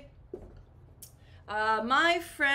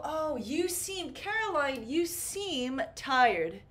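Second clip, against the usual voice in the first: concerned friend; 4 semitones higher than usual. Shown as a demonstration.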